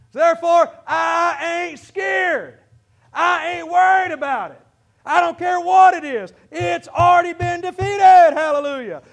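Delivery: preaching at full force; triumphant declaration. Real, not acted. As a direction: declare you're not scared.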